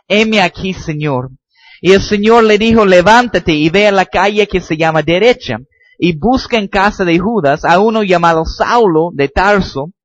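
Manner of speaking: preaching from the text; scripture reading. Acted. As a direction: read the story out to the church. Reads Acts passage aloud.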